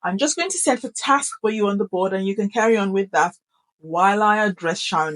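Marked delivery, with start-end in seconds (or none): 3.8-5.2 sudden robot tone. Shown as a demonstration. Teacher turning from class to Sharon, sudden monotone. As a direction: drop into a firm monotone. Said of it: "it just suddenly takes that tone".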